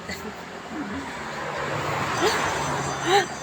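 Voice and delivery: breathy burst of laughter; laughing. Real, not acted. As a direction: laugh it out at length. Laughs after joking remark.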